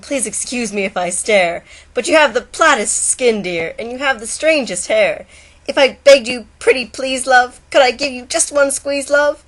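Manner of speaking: woo her like a hopeful suitor; lovesick turtle. Acted. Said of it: "Said the turtle to his darling".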